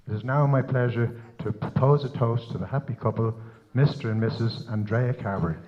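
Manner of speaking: low, measured reading of a blessing; formal wedding toast. Real, not acted. Father blessing the happy couple at the wedding, formal toast. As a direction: read the toast out softly and evenly.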